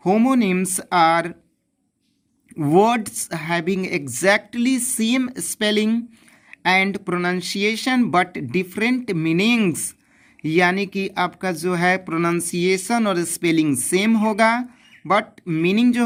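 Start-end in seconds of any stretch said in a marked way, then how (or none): 0.1-9.8 even slower, word by word dictation. Shown as a demonstration. Teacher repeating the definition, slower dictation. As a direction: dictate again with long pauses. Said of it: "आपका परिभाषा क्या होता है?".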